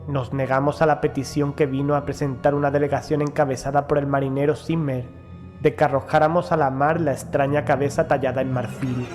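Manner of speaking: ordinary delivery, nothing marked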